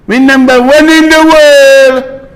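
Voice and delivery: sneering singsong boast; mocking boast. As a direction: crow it in a high mocking voice. Mocking government's boast repeated.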